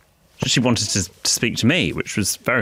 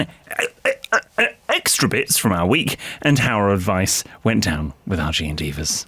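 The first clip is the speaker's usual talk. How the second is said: announcer read. Acted. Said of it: "That was very good. You've got good, um, diction".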